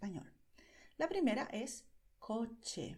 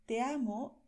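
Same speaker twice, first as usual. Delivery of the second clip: "Te amo" louder and higher, hammed-up drama; dramatic; 4 semitones higher, 6 dB louder than usual. Shown as a demonstration. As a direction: overplay it like a soap opera. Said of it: "Suena, mm, dramático y extraño". (declaración dramática y exagerada)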